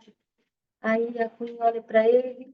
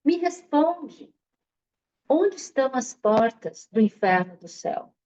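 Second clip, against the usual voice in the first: irritated demand. Acted. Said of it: "já se pegou firme no seu ego".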